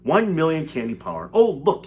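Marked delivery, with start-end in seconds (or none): 1.3-1.9 high, loud cry of delight; excited cry. A narrator's reading. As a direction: call out eagerly. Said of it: "he cried, pointing down".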